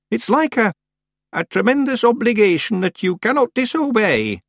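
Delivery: high-pitched Scots explanation; earnest Scots clansman. Acted. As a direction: explain the solemn duty to the mistress. Rob explains the geas.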